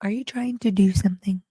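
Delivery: lightly voiced cat; a hint of a wary cat voice; voicing the cat. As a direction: speak for the suspicious kitty. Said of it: "You're doing that voice".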